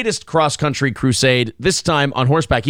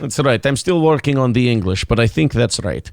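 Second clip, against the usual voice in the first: low, lightly voiced Russian; reply in a comic Russian accent; 5 semitones lower than usual. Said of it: "you can do a Russian accent".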